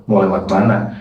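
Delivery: ordinary delivery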